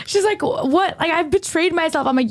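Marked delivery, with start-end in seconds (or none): 0.4-1.0 mock tearful, high-pitched; a high, imitated cry of dismay; Gail. Upset vegetarian learns of bacon, mock bawling. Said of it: "Gail starts bawling her eyes out". 1.1-2.1 mock tearful lament, pitched high; Gail. Vegetarian blames herself at dinner, mock bawling. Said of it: "Gail starts bawling her eyes out".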